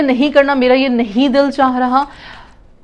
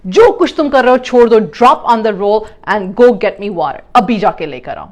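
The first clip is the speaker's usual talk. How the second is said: a louder, commanding order to drop everything; bossy demand; 4 dB louder than usual. Shown as a demonstration. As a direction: demand it like an impatient parent. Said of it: "البتہ demand کیا ہوگی؟". (حکم دیتے ہوئے مطالبہ)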